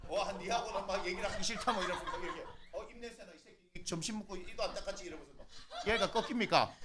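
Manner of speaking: very faint, distant voice; barely picked-up preaching; off-microphone. Real, not acted. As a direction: talk well away from the mic. Speaking away from the microphone.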